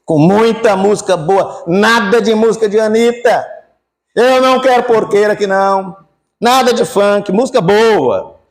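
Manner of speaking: excited father. Acted. Father orders feast for son.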